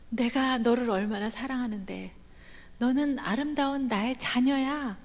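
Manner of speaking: a lightly voiced loving father; tender reassurance. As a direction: reassure a beloved child gently. God reassuring his child.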